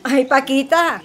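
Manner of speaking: normal talking voice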